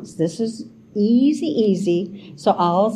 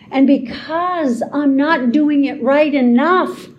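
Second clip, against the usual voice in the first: vicious inner storyteller; 3 semitones higher than usual. Acted. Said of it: "told you it was vicious".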